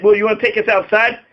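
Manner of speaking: retold calm, even-voiced challenge; calm and cool. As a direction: ask it coolly, without raising your voice. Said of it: "I very calmly and coolly said".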